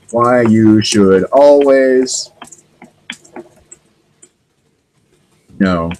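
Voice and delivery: very slow, drawn out as if typing each word; typing dictation. Real, not acted. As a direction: speak at typing speed. Reading aloud while typing search.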